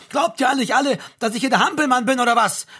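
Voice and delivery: high, loud outraged roar; full-voiced angry outburst; bellowing. A narrator's reading. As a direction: yell it as an offended accusation. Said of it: "brüllte er".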